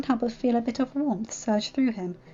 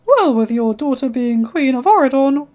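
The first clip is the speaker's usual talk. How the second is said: louder, self-important god; pompous Zeus voice; 7 dB louder than usual. Acted. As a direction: lord it over the others. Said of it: "the pompous voice I used for Zeus".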